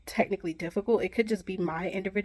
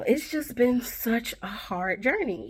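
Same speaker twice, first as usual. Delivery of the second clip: a slow, breaking whisper on the verge of tears; near-tears whisper; 4 semitones higher than usual. Real, not acted. Telling viewers about her hard journey, slow near-tears whisper. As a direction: hold back tears and let it fall to a whisper.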